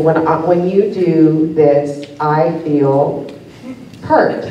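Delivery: slow, careful therapy-speak with a pause before the last word; measured, mock-earnest heart-to-heart; earnest couples talk. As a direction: act out a deliberate sit-down talk. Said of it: "sit down and, like".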